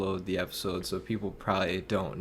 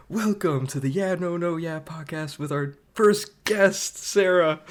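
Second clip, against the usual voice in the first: big, bright podcast host intro; announcer voice; 8 semitones higher than usual. Shown as a demonstration. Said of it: "You did it".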